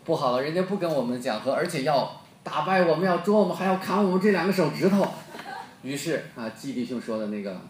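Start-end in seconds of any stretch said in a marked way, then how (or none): 0.0-5.0 rising panic, getting louder toward the end; a frightened messenger bursting in with bad news; panicked envoy. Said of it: "那是如丧考妣". (惊慌失措地越说越急越响)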